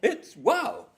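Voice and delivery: very high, loud hooting cry of wonder; excited discovery. Retold or imitated. Coma patient breaking through with a loud excited wow. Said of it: "And then he goes".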